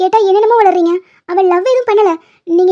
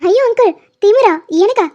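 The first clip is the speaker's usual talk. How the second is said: feigned shock; 2 semitones higher than usual. Acted. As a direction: act wounded by the accusation. Feigned shock at accusation of arrogance.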